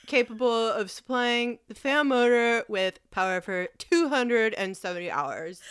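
lightly put-on smug nerd voice; neck beard voice. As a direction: read it like a smug know-it-all. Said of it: "talk like a neck beard asshole whenever I read it".

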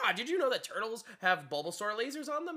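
a hint of a know-it-all game mentor; mock game professor lecturing; Professor Oak. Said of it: "it's like Professor Oak".

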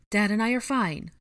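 high, loud messenger voice; voice from a Patronus. A narrator's reading. Ginny sends word by Patronus, calling out. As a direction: pitch it up, calling a reassurance. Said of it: "Ginny's voice echoed from her Patronus".

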